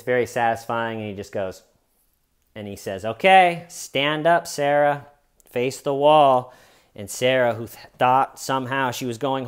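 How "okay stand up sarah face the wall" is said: firm command. Retold or imitated. Detective orders the arrest.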